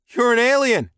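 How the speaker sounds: high, loud cry of shock; shocked gasp. A narrator's reading. Captive man sees his alien captor, shocked outcry. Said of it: "the man gasped".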